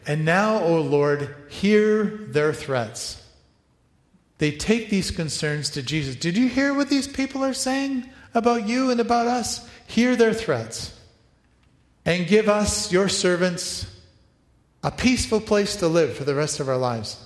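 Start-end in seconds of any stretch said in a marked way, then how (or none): 0.0-3.2 earnest prayer. Retold or imitated. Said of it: "This is how they prayed". 6.2-17.2 pitched well up, pleading and self-pitying; hammed-up complaining prayer, begging for an easy life; a wrong take of the prayer, whining; whiny mock prayer. Shown as a demonstration. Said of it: "read my desires into that prayer".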